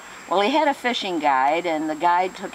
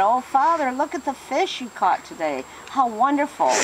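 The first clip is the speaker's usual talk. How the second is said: gushing nun; 6 semitones higher than usual. Acted. Nun gushing over the fish.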